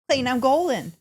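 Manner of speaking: a burst of race-day confidence; excited. Shown as a demonstration. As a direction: sell it like a victory cry. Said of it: "This is what it sounds like".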